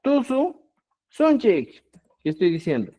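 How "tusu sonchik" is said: Tusu sonchik as a Quechua phrase, raised in pitch; Quechua example. Shown as a demonstration. Teacher models the Quechua phrase for students, raised. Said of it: "si tú dices".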